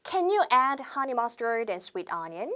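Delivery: slow, careful order phrase; slow classroom demo; slow model sentence. Shown as a demonstration. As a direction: read it word by word for repeating. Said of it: "한 번 더 해볼게요".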